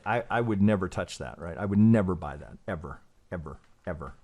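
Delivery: firm stress on NEVER, dropping low for each "ever"; emphatic. Real, not acted. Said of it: "why do I say that so emphatically?".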